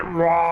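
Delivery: straining grunt. Pretend. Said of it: "He's straining".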